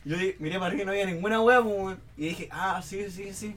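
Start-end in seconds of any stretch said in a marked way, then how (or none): 2.5-3.5 humouring agreement. Retold or imitated. Child humouring uncle in story.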